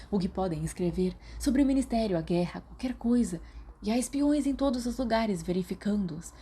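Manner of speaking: put-on a nervous boy spilling secrets; nervous Peter. Peter's nervous gossip voiced.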